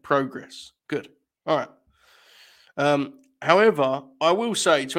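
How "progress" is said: "Progress" starting like "pro"; long-o progress. Shown as a demonstration. Host confirming how we say it, "Progress" with long o. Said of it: "That's how we say it".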